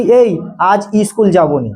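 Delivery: slow, relaxed schoolkid talk; lazy everyday Bengali, slow; casual everyday speech. Retold or imitated. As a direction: say it like a kid skipping school. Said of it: "আমরা সবাই কি বলি?".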